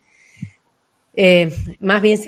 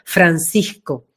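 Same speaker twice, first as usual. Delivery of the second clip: "Francisco" slow and spacious, lingering on each syllable; drawn-out Francisco; 4 semitones lower, much slower than usual. Shown as a demonstration. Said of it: "todo ese colorido, ese potencial". ("Francisco" lento, saboreando cada sílaba)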